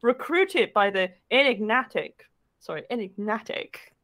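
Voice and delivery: mock-epic back-cover narration; theatrical narrator with measured phrasing; story blurb read. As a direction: read it like a pulpy trailer, pausing for effect. Reads a comic romance blurb aloud.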